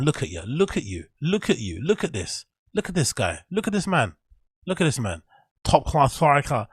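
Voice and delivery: high, incredulous jeering; mocking scorn. Real, not acted. Mocking the striker he berates.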